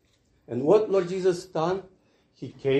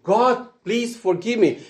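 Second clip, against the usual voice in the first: higher, pleading call to God; earnest plea; 5 semitones higher than usual. Shown as a demonstration. Preacher repeating the plea higher and more earnestly. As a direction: lift the voice and plead it. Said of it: "you just need to say".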